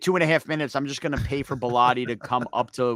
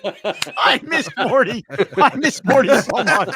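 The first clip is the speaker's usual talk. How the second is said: laughing; 10 semitones higher, 6 dB louder, much slower than usual. Real, not acted. Laughing wistful cry out.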